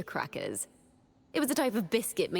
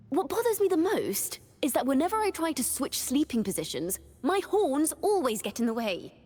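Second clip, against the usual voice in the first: higher-pitched, lively grumble; mild exasperation; 6 semitones higher than usual. Acted. Sleeper grumbling about horns getting in the way, mildly exasperated. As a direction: complain with playful frustration.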